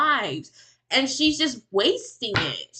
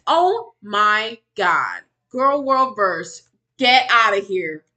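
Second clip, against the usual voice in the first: excited; 7 dB louder, slower than usual. Real, not acted. Excited greeting of viewer.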